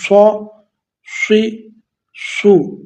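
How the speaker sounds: سا، سی، سو said full and thick like ص; heavy. Shown as a demonstration. Teacher showing students heavy ص sound. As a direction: fill the mouth on سا. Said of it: "اس کو پر پڑھیں گے".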